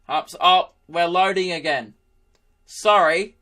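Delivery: lightly voiced apologetic old man; a hint of a flustered old-timer; old pensioner. Laptop apologising to its owner, lightly voiced old pensioner. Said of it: "this old pensioner Mac dude dictating".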